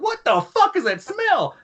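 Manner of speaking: high, drawn-out incredulous cry; slow, squeaky-high mock outrage; acted appalled outburst. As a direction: imitate an officer recoiling at a stench. Disgusted officer's outburst, retold.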